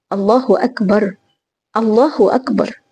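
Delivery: slow, heartfelt takbir; savoring the words. Shown as a demonstration. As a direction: linger on each word as if tasting it. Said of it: "استطعمها أكبر". (تكبير متمهّل باستطعام)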